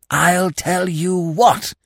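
slow, hoarse conspiratorial whisper. A narrator's reading. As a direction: rasp it under the breath. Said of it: "repeated Freddy in a hoarse whisper".

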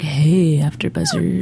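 low, sultry greeting; sexy voice. Pretend. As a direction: purr it out seductively. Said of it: "put our sexy voices on".

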